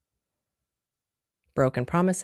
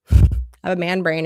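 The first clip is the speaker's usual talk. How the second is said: says it again through a laugh, louder; laughing at her own line; amused laughing repeat; 5 dB louder than usual. Real, not acted.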